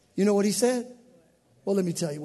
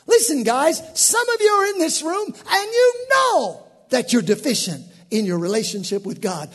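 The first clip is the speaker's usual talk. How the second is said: high, loud preacher call-out to the room; full-force preaching; 4 semitones higher, 8 dB louder than usual. Real, not acted. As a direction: preach it hard at the congregation.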